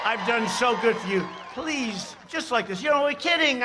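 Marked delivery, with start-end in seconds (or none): 1.5-2.8 sarcastic plea. Shown as a demonstration. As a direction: beg softly in jest. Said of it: "I mean, I'm being sarcastic".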